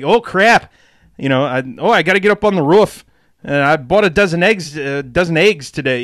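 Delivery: lightly exaggerated US Midwestern accent. Shown as a demonstration. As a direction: do a hammy Midwestern American accent. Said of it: "in the U S Midwestern".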